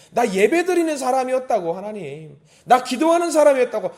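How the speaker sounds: high, loud pleading; insistent protest. Acted. Believer insists before an angry God, impassioned protest. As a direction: claim your right like a child to a father. Acted bold appeal to God.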